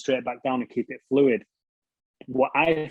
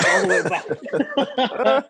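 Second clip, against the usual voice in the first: real laughter bubbling through the words; breaking into laughter; 8 semitones higher, 4 dB louder, much slower than usual. Real, not acted. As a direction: voice rising into a laugh. Laughing at own mishap retold.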